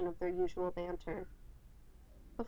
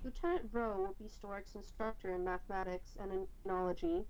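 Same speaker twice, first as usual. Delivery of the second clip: choppy audio with brief dropouts; words clipped by a glitchy connection; audio cutting out; 7 dB louder than usual. Real, not acted. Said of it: "The sound keeps cutting out for a split second".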